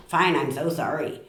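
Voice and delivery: curt "fine", then a reluctant sorry; grudging apology. Shown as a demonstration. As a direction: concede while clearly not meaning it. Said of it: "the tone of voice changes everything".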